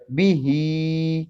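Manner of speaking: "بھی" short, "ہی" drawn out; short-long contrast. Shown as a demonstration. Teacher reads out the spelled word, short "بھی", long "ہی". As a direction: clip "بھی", hold "ہی" long. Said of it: "با کے نیچے جو زیر ہے پڑی حرکت ہے".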